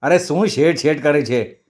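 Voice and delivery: mildly irritated retort; a touch of exasperation at being pestered; exasperated yell. Acted. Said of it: "शेठजी एकदम कावून ओरडला". (थोडं कावून)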